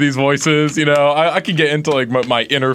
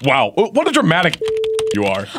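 exasperated; 4 semitones higher than usual. Acted. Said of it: "you're Dana".

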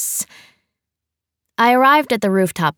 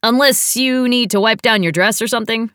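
happy; 4 semitones higher than usual. A narrator's reading. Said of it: "Eddie said happily".

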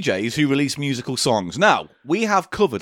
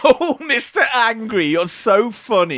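DJ indulging his angry caller; Steve Wright DJ accent; 6 semitones higher, slower than usual. Pretend. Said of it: "and I'll be Steve Wright".

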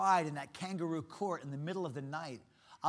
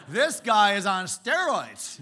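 amazed aside; 4 semitones higher, 12 dB louder, slower than usual. Retold or imitated. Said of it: "It's like".

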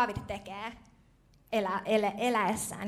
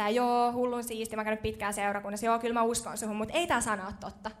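mock dismissive believer; faster than usual. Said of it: "Ja sit sä oot silleen".

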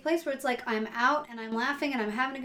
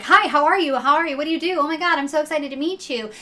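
higher, louder gushing greeting; Ohio enthusiasm; 6 semitones higher, 6 dB louder, faster than usual. Retold or imitated. An Ohioan greeting a stranger, excited and gushing. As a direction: gush like meeting a new best friend. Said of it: "came from the enthusiasm".

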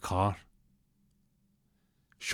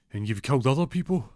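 high mock-nervous question; 5 semitones higher, 4 dB louder than usual. Captive baits killer.

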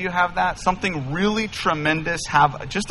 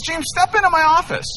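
higher-pitched mock of the intimidating dad; stern father; 13 semitones higher, faster than usual. Pastor imitating girlfriend's sheriff father summoning him into the garage. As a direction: play the menacing father, half-joking.

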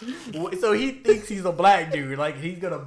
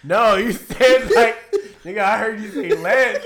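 retold insistence; 5 semitones higher, 9 dB louder, slower than usual. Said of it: "He's like".

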